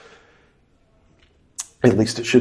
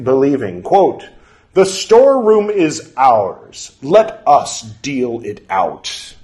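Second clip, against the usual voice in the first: measured, deliberate scripture reading; formal reading aloud; 3 semitones higher, 3 dB louder, slower than usual. Acted. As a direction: read it like an old formal text. Reads scripture text aloud.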